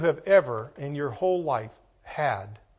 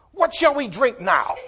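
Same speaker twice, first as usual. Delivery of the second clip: complaining murmur; 6 semitones higher, 4 dB louder than usual. Retold or imitated. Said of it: "Here's what they said".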